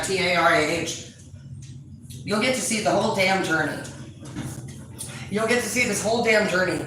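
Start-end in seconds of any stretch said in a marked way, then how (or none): 0.0-1.1 spelling out the name letter by letter; spelled out. Shown as a demonstration. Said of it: "Tara Dana".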